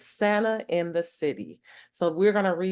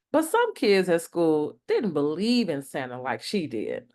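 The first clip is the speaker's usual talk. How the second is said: lively bedtime story voice; reading to children. Acted. Reading a picture book to young listeners, animated storytime. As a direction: read it like storytime for kids.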